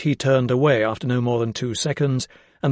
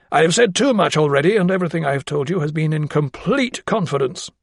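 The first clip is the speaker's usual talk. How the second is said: higher-pitched, insistent gentleman; firm gentleman; 4 semitones higher than usual. Acted. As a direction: insist on secrecy, formal and firm. Voices Sir Joseph closing up.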